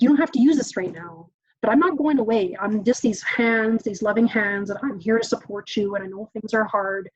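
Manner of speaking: gentle steady reassurance; telling an upset kid she's here for them; reassuring. Shown as a demonstration. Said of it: "the kids have told me works".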